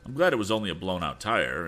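curious note. Acted. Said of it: "Tom's voice had a curious note in it".

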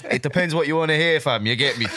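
put-on light London roadman accent, laid-back; casual London roadman accent, half-joking. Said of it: "drop a London Roadman accent".

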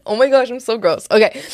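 ordinary delivery

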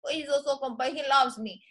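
lightly imitated Puerto Rican wife; quick sample of her Puerto Rican accent; thick Puerto Rican accent. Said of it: "thick accent, right?".

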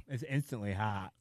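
slow hushed whisper with a mouthful. Real, not acted. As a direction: whisper it through hot food. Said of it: "why are you whispering?".

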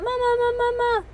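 very high wailed pleading; toddler screaming. A narrator's reading. Toddler held tight calling mama, high wail. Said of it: "screamed Kalia".

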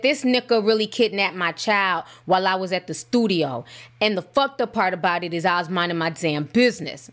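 light imitation of a Baltimore accent. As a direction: read it out with a put-on Baltimore accent. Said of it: "that's my Baltimore accent".

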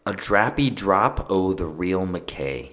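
lightly faked Scottish, drawn out; unsure stab at a Scottish accent; bad Scottish accent. Shown as a demonstration. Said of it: "an accent that's gonna be terrible".

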